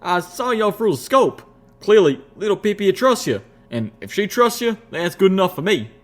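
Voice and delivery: Calamity. A narrator's reading. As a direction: vouch for her heartily, grinning. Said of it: "Calamity said, still grinning".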